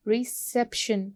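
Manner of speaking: "Reception" said slowly, weight on the second syllable; stress on second syllable. Shown as a demonstration. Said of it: "it will be second syllable". ("Reception" में दूसरे syllable पर ज़ोर)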